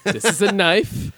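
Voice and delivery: slow, over-simple teacher voice; talking to a cat. Pretend. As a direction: explain it slowly, like to a pet. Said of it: "Explaining cooking to Adam".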